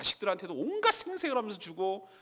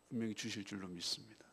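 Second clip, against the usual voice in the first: whispered affirmation; 8 semitones lower, 12 dB quieter than usual. Acted.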